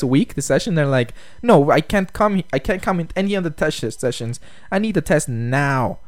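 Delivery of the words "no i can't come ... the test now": mock insistent student. Retold students refusing and demanding.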